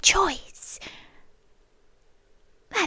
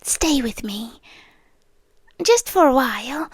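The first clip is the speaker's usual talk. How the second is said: a tender whispered plea; 2 semitones lower than usual. Acted. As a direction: beg them to stay, barely audible. Pleading with listener to stay.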